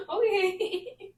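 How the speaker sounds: high, cooing okay; retold melting reply. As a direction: coo it as if indulging a toddler.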